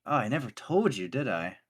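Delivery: lightly voiced forgetful mentor; hammed-up forehead smack; sudden realization. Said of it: "smacks his forehead and goes".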